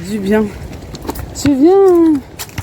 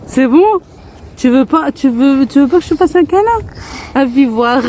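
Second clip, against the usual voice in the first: tender offer; 4 semitones higher than usual. Real, not acted. Offering hug to hurt daughter.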